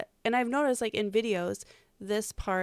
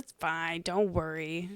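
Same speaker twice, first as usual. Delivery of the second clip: put-on doctor's Haitian accent; 2 semitones lower, slower than usual. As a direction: brush off the worry in a mock Haitian accent. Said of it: "in his accent".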